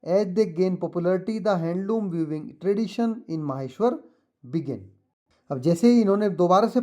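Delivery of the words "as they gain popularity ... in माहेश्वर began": slow, deliberate read-aloud for pupils; teacher reading the textbook passage. Shown as a demonstration. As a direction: read it out slowly so the class can follow. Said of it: "तो मैं पढ़ता हूँ इसको".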